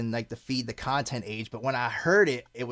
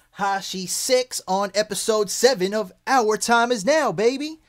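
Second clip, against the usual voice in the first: hype announcement; 6 semitones higher, 5 dB louder than usual. Real, not acted. Podcast intro hype.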